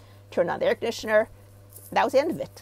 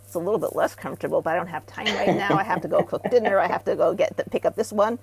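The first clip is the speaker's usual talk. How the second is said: busy client excuse; 5 dB louder than usual. Retold or imitated. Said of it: "It goes up to a four".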